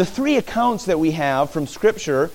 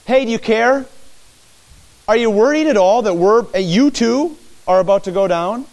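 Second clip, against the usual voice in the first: raised, anxious questioning; doubting plea; 5 semitones higher than usual. Acted. A disciple doubting Jesus' care, raised and anxious. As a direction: ask as if you doubt he cares.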